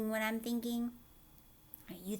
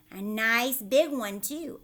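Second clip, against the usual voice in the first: excited aunt; 9 dB louder than usual. Acted. Aunt Spiker insisting to Sponge the peach is there. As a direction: point and shriek about the fruit.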